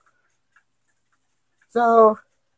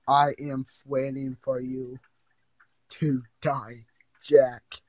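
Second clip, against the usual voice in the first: spooky low voice; 4 semitones lower, 7 dB quieter, slower than usual. Acted. Creepy voice of the game.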